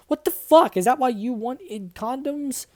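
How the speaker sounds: mock sadistic taunt. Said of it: "I asked sadistically".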